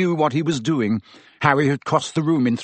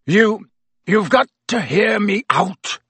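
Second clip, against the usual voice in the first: croaked; 8 semitones higher, 4 dB louder than usual. A narrator's reading. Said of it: "he croaked".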